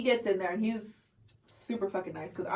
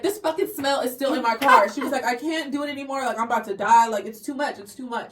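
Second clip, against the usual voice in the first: retold fed-up complaint, punched at the start; mock a friend at the end of her rope; exasperated complaint; 3 semitones higher, 5 dB louder than usual. Friend complaining about the car smell, exasperated.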